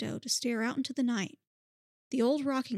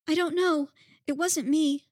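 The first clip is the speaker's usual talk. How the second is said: trembling whiny yelps; 5 semitones higher, 6 dB louder than usual. Acted. Toy startled by knock.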